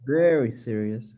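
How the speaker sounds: VERY given the main weight, falling at the end; student's modest emphasis on Very; stress on VERY. Shown as a demonstration. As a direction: put the focus on Very. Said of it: "the number two is very".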